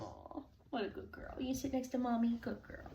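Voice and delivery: calm the frightened puppy; soothing pet talk. Real, not acted. Soothing the scared dog.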